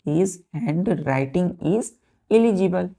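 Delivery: his handwriting is said very slowly; teacher repeating for dictation. Shown as a demonstration. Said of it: "जैसे कि हमने बोला".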